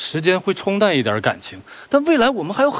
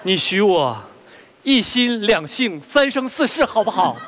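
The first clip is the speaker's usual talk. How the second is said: cheesy romantic poet; slower than usual. Acted. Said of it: "别恶心我俩行吗".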